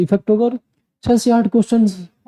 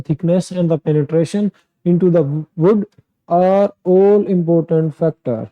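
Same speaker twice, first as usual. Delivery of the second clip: very slow, word-by-word read-aloud of an exam passage; slow careful reading; much slower than usual. Shown as a demonstration. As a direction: read it slowly so that no word is dropped or added. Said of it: "इसमें क्या हुआ, हमने सिर्फ अभी काम किस पे किया". (हर शब्द साफ़, बहुत धीरे पढ़ना)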